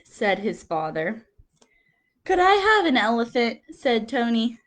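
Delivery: lively picture-book reading with quote voices; reading to children. Acted. Teacher reading picture book to class, lively storytelling. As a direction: read it like story time for little kids.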